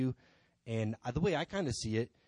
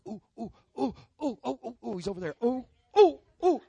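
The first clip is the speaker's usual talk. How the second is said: high hooting, building much louder; mock frantic eagerness; 13 semitones higher, 8 dB louder than usual. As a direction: clamour to be noticed, ooh after ooh. Acts out his past eagerness.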